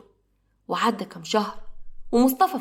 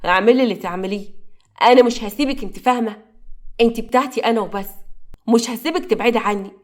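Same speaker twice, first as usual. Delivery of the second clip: angry; 4 dB louder than usual. Acted. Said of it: "حازم بغضب".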